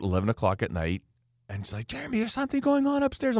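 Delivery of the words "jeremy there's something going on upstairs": mock high-pitched woman on the phone; downstairs lady. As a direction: imitate the neighbour in a much higher voice. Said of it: "the lady downstairs, she was like".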